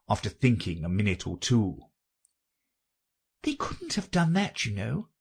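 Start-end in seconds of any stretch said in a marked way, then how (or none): 3.4-5.1 high, gently put objection; gentle. A narrator's reading. Alice doubts the Dormouse's tale, gently remarking. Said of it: "Alice gently remarked".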